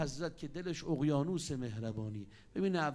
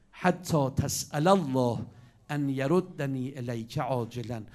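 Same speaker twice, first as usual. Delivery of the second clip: earnest plea; 7 dB louder, slower than usual. Acted. Messenger pleading to return quickly.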